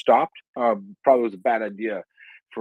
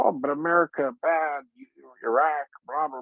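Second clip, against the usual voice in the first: mocking; 5 semitones higher than usual. Mocking critics of America.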